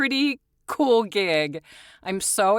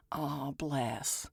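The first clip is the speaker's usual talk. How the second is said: imitated Southern sympathy; 4 semitones lower, 14 dB quieter than usual. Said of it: "you'll say".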